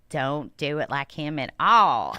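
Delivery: a touch of a slow country twang. Retold or imitated. Host imitating her co-host's country twang. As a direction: drawl it out with a light country twang. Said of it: "I just had to bring the country twang".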